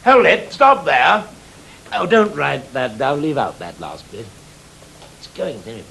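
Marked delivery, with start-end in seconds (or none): 0.0-1.3 firm call to stop. Real, not acted. Director halting the scene.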